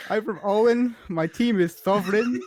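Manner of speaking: badly faked Scottish accent, just after giggling; botched mock-Scottish accent. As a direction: attempt a Scottish introduction unconvincingly. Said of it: "don't know what accent that is".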